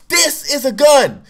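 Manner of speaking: high, slow, furious shout; mad cop yelling. Retold or imitated. Cop putting his gun in boy's face, angry shouting. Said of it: "the cop was so mad".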